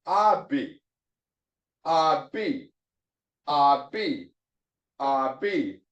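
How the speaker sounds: "abi" said as two syllables put together; two syllables joined. Shown as a demonstration. Teacher putting syllables together for learners, "abi" in two joined syllables. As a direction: sound out "abi" in two parts, ah then B. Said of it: "So put it together".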